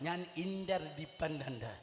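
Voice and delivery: slow, deliberate ഞാൻ ഇന്റർഡിപെൻഡന്റ്; slow repeat. Shown as a demonstration. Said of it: "ഒരിക്കൽ കൂടെ".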